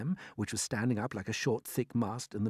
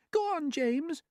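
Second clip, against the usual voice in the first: gentle urging; slower than usual. A narrator's reading. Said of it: "the ladybird said gently".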